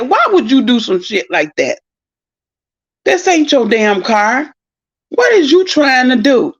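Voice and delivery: mildly heated retold scolding; retold cussing out. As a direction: act out telling him off. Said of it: "I cussed him clean the hell out".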